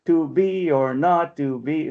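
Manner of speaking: "To be or not to be" slowly, in a steady iambic beat; metrical scansion. Shown as a demonstration. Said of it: "let's take it apart".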